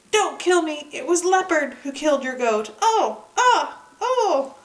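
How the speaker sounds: high, loud begging cries; pretend terror. Dog fakes being beaten by villagers, high loud mock-terrified begging. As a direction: plead for your life, hammed up.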